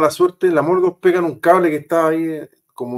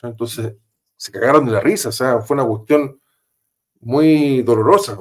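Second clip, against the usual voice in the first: usual speaking voice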